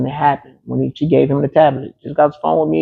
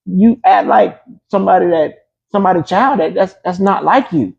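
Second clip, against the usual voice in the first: put-on raised, earnest lecture to the young ones; higher, insistent scolding demo; firm talking-to; 5 semitones higher than usual. Shown as a demonstration. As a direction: set them straight, pitched up and pressing. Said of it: "listen, this is how I talk to them".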